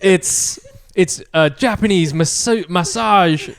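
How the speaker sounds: mock DJ track announcement; DJ patter. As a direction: roll out the playlist, building to a loud finish. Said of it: "you're, like, a D J".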